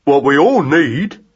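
slow mouse echo of Jim; Magnus echoing. A narrator's reading. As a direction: repeat it slowly, copying. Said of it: "said Magnus".

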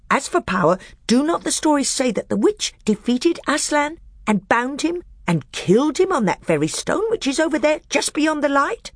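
high, sly dwarf voice pitched well up; a bitter dwarf testing the council; high, crafty dwarf; scheming dwarf. Acted.

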